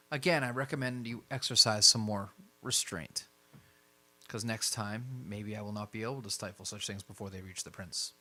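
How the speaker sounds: a hint of a formal superior; lightly voiced admonishing Jackson. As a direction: caution them with restrained authority.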